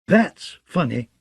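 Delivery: slow, gloating crow in a fool's voice. A narrator's reading. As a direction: savor the cruelty slowly. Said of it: "Shagwell crowed".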